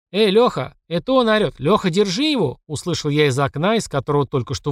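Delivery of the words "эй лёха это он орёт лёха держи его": calling out. A narrator's reading. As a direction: yell out to grab him. Man calling out from window.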